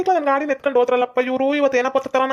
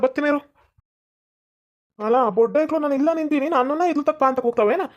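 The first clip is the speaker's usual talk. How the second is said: higher, riled-up threats; mock threatening; 3 semitones higher than usual. The angry man searches for whoever taunted him, riled up. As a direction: challenge the hidden caller to show himself.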